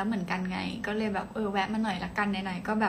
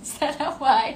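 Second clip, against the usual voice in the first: higher and louder, playfully baffled; mock exclaim; 5 semitones higher, 5 dB louder, much slower than usual. Streamer playfully echoes a viewer's strange English, mock exclaim. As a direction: toss the odd phrase back at the chat.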